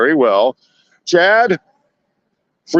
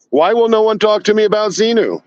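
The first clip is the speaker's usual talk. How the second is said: mock exasperation; 7 semitones higher than usual. Mock-pleading to passersby about Xenu.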